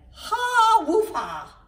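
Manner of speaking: high barking laugh; dog laugh. A narrator's reading.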